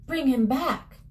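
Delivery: mildly pleading mother, pitch rising toward the end; desperate demand. Acted. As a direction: urge him desperately to act. Mother demanding a wish in story.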